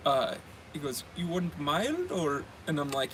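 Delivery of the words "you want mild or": put-on slow Indian-accented question; lightly imitated Indian accent. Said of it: "I'm gonna do the accent".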